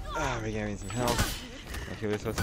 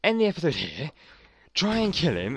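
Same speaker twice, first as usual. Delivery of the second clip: frustrated outburst; 6 semitones higher, 4 dB louder than usual. Real, not acted. Rage-quitting the episode.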